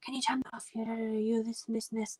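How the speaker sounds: high, mock-aggressive gabble without real volume; retold aggressive rant. Retelling a stranger's abuse over the phone, mock aggressive. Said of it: "aggressive with Tony".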